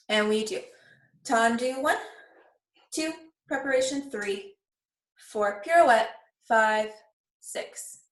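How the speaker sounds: counting steps aloud in rhythm; ballet class count. Shown as a demonstration. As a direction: call the counts like a dance teacher. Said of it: "counting the class through".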